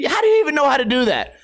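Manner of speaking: high, quick incredulous question; mock astonishment. Owner questioning his howling dog, mock astonished. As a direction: blurt it fast and high, baffled. Acted astonishment at the dog's howl.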